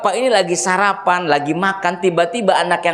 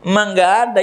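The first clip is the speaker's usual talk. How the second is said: put-on child voice; 4 semitones higher, faster than usual. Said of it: "gitu ngomongnya".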